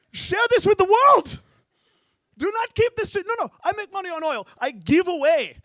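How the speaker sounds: high, loud decree shouted; hammed-up royal decree; grand proclamation. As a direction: announce it to the whole world. Sheik proclaims giveaway.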